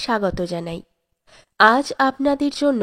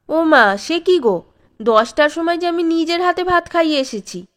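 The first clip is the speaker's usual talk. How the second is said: higher, louder cry of disbelief; astonished wife; 5 semitones higher, 3 dB louder than usual. A narrator's reading. Mother protesting to husband, higher and louder in disbelief. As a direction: she can't believe what she hears.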